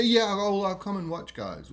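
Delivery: plain. Retold or imitated. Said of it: "He was very slow, uh, in his speech".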